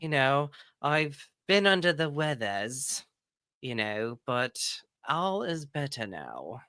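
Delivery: playful mock British accent, lightly put on; a host answering in a put-on British accent; joke British accent. Podcast host answering her co-host in a mock British accent. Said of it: "I don't know why I'm talking with this accent".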